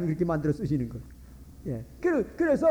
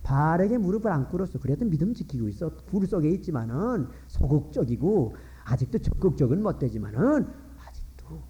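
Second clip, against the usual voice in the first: gentle answer from God; 5 semitones lower than usual. Acted.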